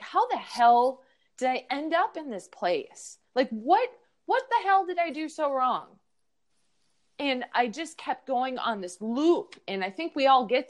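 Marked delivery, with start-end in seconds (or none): 0.0-5.9 high, frustrated self-questioning; exasperated self-question. Retold or imitated. Alone in the car, asking herself in high frustration. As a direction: voice climbing in disbelief at herself. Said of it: "I was like".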